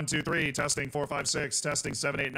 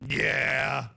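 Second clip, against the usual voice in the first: glitchy robotic audio; 4 dB louder than usual. Real, not acted. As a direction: voice warped into a robot. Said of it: "and my robot voice".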